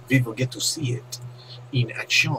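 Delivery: slipping into mock French accent; a touch of bad French accent; French accent slip. Caster showing off the replay, slipping into a French accent. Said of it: "Oh, I keep doing it".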